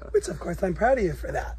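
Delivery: ordinary talk, nothing marked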